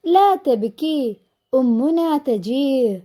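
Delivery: slow, drawn-out reassurance; lightly acted soothing, each word stretched; consoling baby bird. Baby bird comforting its crying sibling, slow and consoling. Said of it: "കൂടെയുള്ള പക്ഷിക്കുഞ്ഞ് സമാധാനിപ്പിക്കുകയാണല്ലേ".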